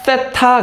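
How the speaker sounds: 세타 drawn out with a strong accent; stressed 세타. Shown as a demonstration. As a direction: give 세타 a deliberate, emphatic stress. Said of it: "여기 강세 있어요".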